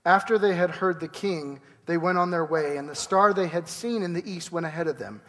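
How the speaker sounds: steady, measured Bible reading; scripture reading. Acted. Pastor reading Matthew to the congregation, measured scripture reading. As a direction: read the passage to the congregation.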